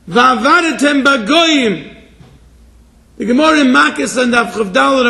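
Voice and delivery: emphatic scriptural recitation and exhortation; fervent preaching. Real, not acted. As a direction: press the verse on the congregation. Recites verses and exhorts congregation.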